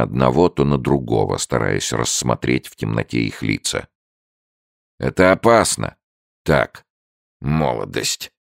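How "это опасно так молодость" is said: a hint of a wheezy old woman muttering between breaths. A narrator's reading. Old barge woman to the young couple, breathless muttering. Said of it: "бормотала она среди приступов одышки".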